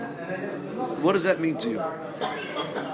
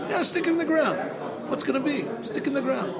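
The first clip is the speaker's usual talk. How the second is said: incredulous high laugh; 7 semitones higher than usual. Acted.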